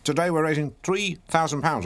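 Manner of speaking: ordinary delivery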